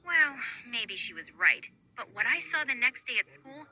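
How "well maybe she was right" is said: ordinary delivery, nothing marked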